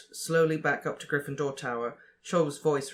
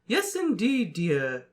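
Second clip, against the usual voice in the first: high, sing-song trill; trilling fat lady; 5 semitones higher, 3 dB louder, slower than usual. A narrator's reading. Fat lady admitting Harry, high and trilling. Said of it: "she trilled".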